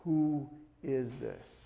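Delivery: slow, soft, awed question; understated awe, spaced out and low in volume; hushed amazement. Acted. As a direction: ask it slowly, as if stunned. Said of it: "in a fear and amazement".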